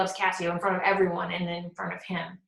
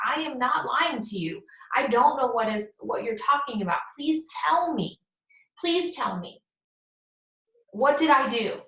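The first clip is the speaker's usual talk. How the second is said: rising, desperate plea, higher; pleading Desdemona; 4 semitones higher than usual. Retold or imitated. Desdemona begs Othello to explain her crime, pleading higher and higher. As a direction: beg him to tell you what you did.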